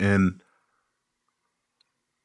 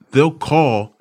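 ordinary talk

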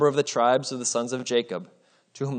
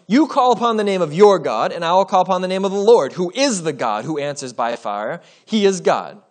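higher, louder prophet's call; bold proclamation; 4 semitones higher, 5 dB louder than usual. Acted. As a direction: declare it boldly to the crowd. Elijah proposes the fire contest.

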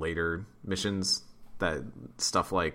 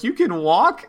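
shocked; 10 dB louder, slower than usual. Retold or imitated. Shocked at Joker walking.

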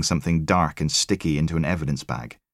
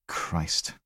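breathed, soft unvoiced gasp of a word; shocked whisper; 8 dB quieter than usual. Logan seeing the body, a horrified whisper. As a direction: barely let it out.

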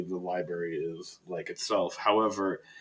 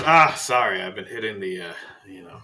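Faust sheepish; 6 dB louder than usual. Acted. Librarian confessing his nightcap, sheepish fading voice. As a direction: admit the drinking, then let it fade. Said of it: "And he goes".

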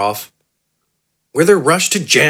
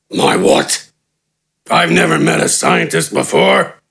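puzzled brute; 2 semitones higher than usual. A narrator's reading. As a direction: rumble it out, baffled. Gafgarn confused.

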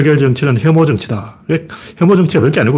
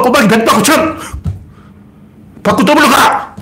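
much higher, punchy mock gambler; hammed-up raising; 8 semitones higher than usual. Rival tops the last bid, hammed-up gambler's call. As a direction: raise the stakes with mock excitement. Acting out escalating betting-style badmouthing.

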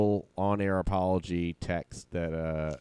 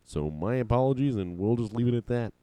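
lightly voiced sportscaster, a touch quicker; Al Michaels; 2 semitones higher than usual. Retrying the on-air apology, lightly imitated sportscaster. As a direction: have another light go at a sportscaster voice. Second try at sportscaster impression.

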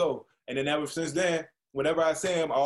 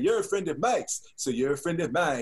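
imitating Jeff; 3 semitones higher than usual. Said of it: "That's how he sounded".

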